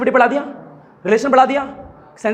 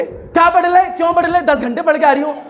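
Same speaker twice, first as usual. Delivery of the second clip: put-on higher, irritated child talking back; sulky retort; 4 semitones higher than usual. Teacher imitating a teenager sulkily answering her mother, higher. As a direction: snap back like a moody teen.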